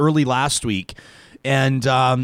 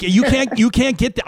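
amazed; 7 semitones higher than usual. Retold or imitated. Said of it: "I was like".

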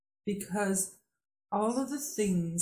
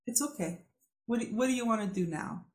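gentle reassurance; 3 semitones higher, faster than usual. Retold or imitated. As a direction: let it go and ask lightly, quickly. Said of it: "a space to say".

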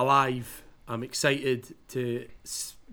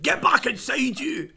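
put-on shouted Southern accent, much higher and louder; 12 semitones higher, 6 dB louder than usual. Mimicking a Southerner chasing him indoors, Southern accent. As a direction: bark it like a Southern man with a shotgun. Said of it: "that's your Southern accent?".

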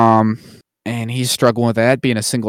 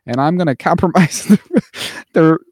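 lightly higher mock heroic prime minister; mock Hugh Grant speech; 6 semitones higher than usual. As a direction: play the defiant British PM, half-teasing. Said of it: "he's like".

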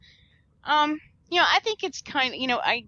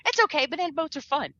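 quicker, slightly higher reassuring quote; lightly voiced mom; 5 semitones higher, faster than usual. Mom tells Ellen the banana boat is okay, lightly imitated reassurance. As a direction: lightly imitate a breezy mother. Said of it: "her mom's like".

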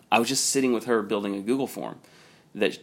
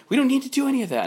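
high mocking impression of the boss brushing it all aside; mock dismissive boss; 3 dB louder, faster than usual. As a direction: boss mimicked high and slightly louder, dismissive. Boss quoted dismissing the plan.

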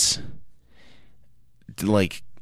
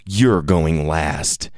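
condescending host; slower than usual. Retold or imitated. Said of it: "he put his hand on my chest and he said".

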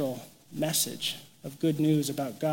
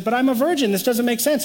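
Mary's objection; 6 semitones higher, 4 dB louder, faster than usual. Retold or imitated. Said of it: "She said".

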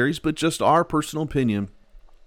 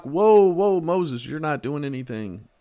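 alarmed whoa; 3 semitones higher than usual. Real, not acted. Preacher halts Moses again, startled. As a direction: cut him off in alarm. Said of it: "preacher stops Moses again".

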